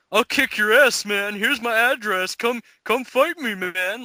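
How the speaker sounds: lightly voiced brawler daring someone to fight; mock tough guy challenge. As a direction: ham up a meathead calling someone out. Mocking tough guy threat.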